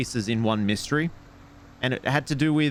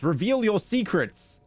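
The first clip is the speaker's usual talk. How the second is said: mock demand; 7 semitones higher than usual. Demanding things from game objects.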